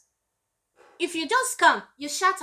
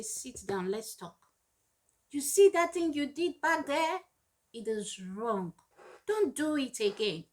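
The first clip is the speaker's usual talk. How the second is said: calm talk. Retold or imitated. Calling the child to talk.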